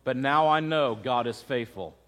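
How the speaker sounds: low, hushed grief without real sobs; understated retold sobbing. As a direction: retell her tearful confession softly. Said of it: "Sobbing uncontrollably".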